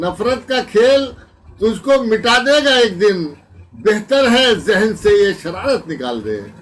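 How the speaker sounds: emphatic, measured mushaira declamation; ghazal recitation. Acted. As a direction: recite the couplet out to the hall. Recites ghazal couplet to audience.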